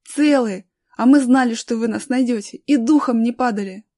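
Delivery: loud, lively assurance; acted boy's elation; joyful reply. A narrator's reading. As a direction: answer rescuers with pride and relief. Rescued boy answers joyfully.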